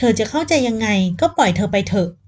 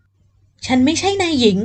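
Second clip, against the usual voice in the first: firm voice; 5 semitones higher, much slower than usual. Acted. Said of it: "พูดออกไปด้วยเสียงแข็ง".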